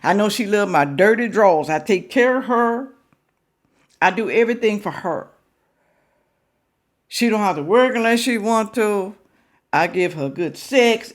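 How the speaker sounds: lightly voiced boastful man; a hint of a proud husband; mock proud husband. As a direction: brag like the unsuspecting husband. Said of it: "what he's saying".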